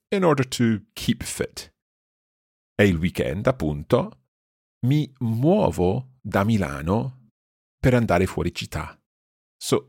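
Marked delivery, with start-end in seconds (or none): 2.8-9.0 slow Italian, broken into short phrases; teacher's unhurried phrase-by-phrase reading; slow repeat. Shown as a demonstration. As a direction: read it out slowly with pauses for learners. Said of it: "I'll repeat this more slowly".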